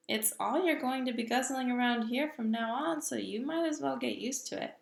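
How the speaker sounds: a hint of a booming giant, firm and sure; lightly voiced big friendly giant. Giant lectures the little girl about giants, lightly voiced.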